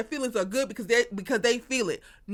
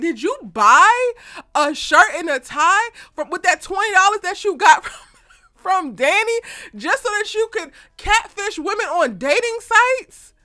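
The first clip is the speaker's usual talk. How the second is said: loud, very high, slow mocking questions through laughter; laughing disbelief; 6 semitones higher, 6 dB louder, slower than usual. Recapper mocking Rock through laughter, loud and high. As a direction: laugh at his catfishing scheme.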